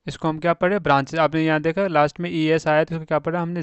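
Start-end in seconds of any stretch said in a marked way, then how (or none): 0.8-1.2 "ब्रांचेज" with a z sound at the end; pronunciation demo. Shown as a demonstration. Teacher models "ब्रांचेज" for students, clear. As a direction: say "ब्रांचेज" ending in ज. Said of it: "ज पढ़ा, ब्रांचेज".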